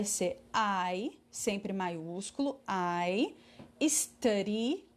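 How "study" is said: "study" with the D tapped like an R; som de R. Shown as a demonstration. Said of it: "com som de R". ("study" com D soando como R)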